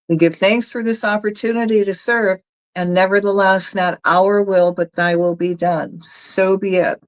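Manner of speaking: steady, reverent closing prayer. Acted. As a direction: give thanks as if praying aloud. Closing prayer after energy work.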